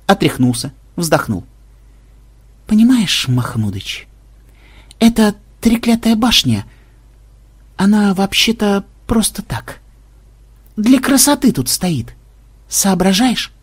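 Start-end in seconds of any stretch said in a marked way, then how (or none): 2.7-13.5 high voice, halting with long pauses; hysterical programmer, strained patience. A narrator's reading. Programmer explains the useless tower to Mahmud, strained patience. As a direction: explain haltingly in a raised, overwrought voice. Figure explains after laughing fit.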